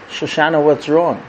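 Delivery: softly acted worried father; gently concerned. Father walks over to his weeping daughter, gently concerned. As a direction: ask low and tenderly.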